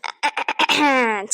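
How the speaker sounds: pointed, drawn-out throat clear. Acted. Mother answers a claimed change of heart, pointed throat clearing.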